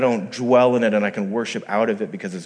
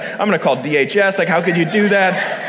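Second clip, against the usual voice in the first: shocked audience; 7 semitones higher, 6 dB louder than usual. Retold or imitated. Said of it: "you guys are looking like".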